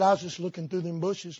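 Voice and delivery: lightly voiced quiet old lady; a hint of a soft-spoken old woman. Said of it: "She said".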